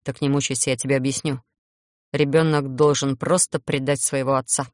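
low, grumbling vampire; grumpy vampire. Acted. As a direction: grumble it at the witch. Bitter vampire voiced by narrator.

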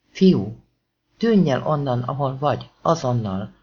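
urgent warning. Acted. Cop warns boy of danger.

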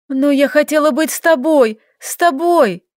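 выше и громче, с надрывом; выкрикнуть, что хотела быть с ней; отчаянное восклицание. A narrator's reading. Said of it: "воскликнула". (девочка кричит опекунше: хочу быть с тобой)

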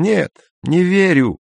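put-on high, scornful old woman; old woman firmly refusing. A narrator's reading. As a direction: refuse it with a scoff. Old woman firm denial.

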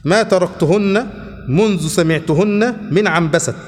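slow, measured classical Arabic reading; formal hadith reading. Acted. Teacher reading hadith text to his class, slow formal reading. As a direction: read the chapter out slowly, phrase by phrase. Reads narrators' chain statements.

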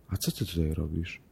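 soft, hushed motherly question; gentle mother. Acted. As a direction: ask the child softly and kindly. Mother gently asks daughter.

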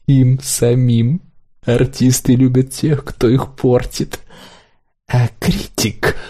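slow, sly insinuating critic; drawn out and creaky. A narrator's reading. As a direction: critic explaining smugly.

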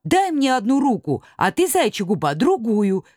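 high, urgent call across the water. Acted. Знайка calls to friends while swimming, high shout. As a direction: shout orders to the others mid-stream. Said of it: "кричал Знайка".

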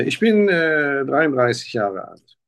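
usual speaking voice

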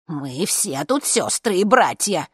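slow, drawn-out proclamation; impassioned old woman's appeal; crying out. A narrator's reading. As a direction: cry it out to the whole hall. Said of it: "кричала одна из старушек".

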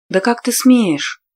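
high, slow indignant bark; snapping. A narrator's reading. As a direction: snap back at him indignantly. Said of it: "Рявкнула".

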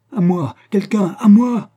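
high, loud, drawn-out call; cry for help. A narrator's reading. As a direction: call out urgently for someone to come. Marquise calls for help when threatened. (appel au secours, crié)

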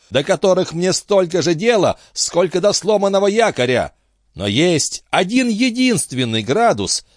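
a high-voiced captain grilling his friend; excitable old sea captain. A narrator's reading. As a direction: press him like a fussy old skipper. Antifer holds forth on treasure.

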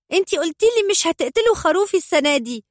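put-on a furious little boy yelling at his mother; angry child's shout. A narrator's reading. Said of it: "فصاح بحبيبة".

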